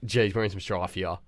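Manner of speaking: low, soft "Geez, we're in some strife here."; muttered worry. Retold or imitated. Boy muttering again as he's caught, worried. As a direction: say it quietly under your breath. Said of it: "I'm like".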